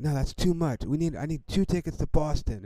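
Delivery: lightly voiced driver bargaining over the phone; cab driver on phone. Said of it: "he's like".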